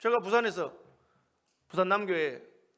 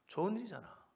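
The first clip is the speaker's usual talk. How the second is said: ordinary talk, nothing marked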